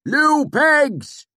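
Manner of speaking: loud call to a pig from far off. Acted. Swineherd calling his sow, loud far-off call. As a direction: call the pig home across the trees.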